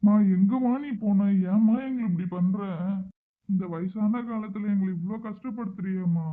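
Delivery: put-on pained grandfather pleading with the returned child; hurt, emotional scolding; distraught reproach.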